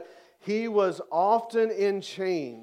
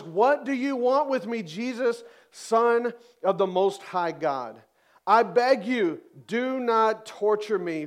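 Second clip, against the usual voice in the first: higher, louder pleading cry; mock shout; 4 semitones higher, 4 dB louder than usual. Possessed man crying out to Jesus, loud and pleading. Preacher voicing demoniac's cry.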